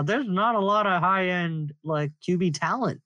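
words squeezed through shut teeth; talking through teeth. Real, not acted. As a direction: speak with the jaw held closed. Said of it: "I'm talking through my teeth right now".

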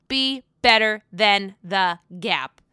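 slow, deliberate repeat of the line; slow movie quote. Retold or imitated. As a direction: drag it out like a famous movie line. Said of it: "As Ryan Gosling would say".

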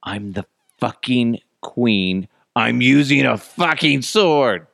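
put-on slow, emphatic royal declaration in own accent; mock indignant queen. Queen refusing the peon's cake knife, slow and emphatic. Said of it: "Then the queen allegedly said".

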